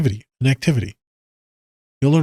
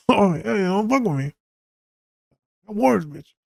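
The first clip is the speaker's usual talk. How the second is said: higher, playful fake menace through laughter; giggly mock warning; laughing mock threat; 9 semitones higher than usual. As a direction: threaten her as a joke. Mock threat right after laughing.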